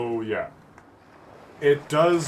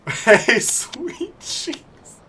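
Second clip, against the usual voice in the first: high, airy pickup line; hammed-up flirty catcall; sleazy catcall; 13 semitones higher, 6 dB louder, much slower than usual. Flirty catcall to injured woman.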